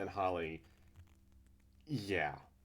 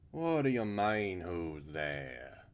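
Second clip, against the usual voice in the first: indignant retort; 6 dB louder, much slower than usual. Acted. Character answering whoever is at the door, indignant.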